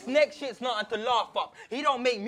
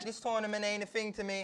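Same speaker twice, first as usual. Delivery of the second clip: muttered quote; 4 semitones lower, 12 dB quieter than usual. Retold or imitated. Quoting opponent's dismissive line.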